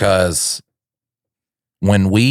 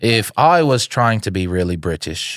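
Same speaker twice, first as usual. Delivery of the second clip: attempted British accent; 2 semitones higher than usual. Shown as a demonstration. Comic testing his British accent on his co-host, unsure. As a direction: have a rough go at sounding British. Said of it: "I could do a British accent".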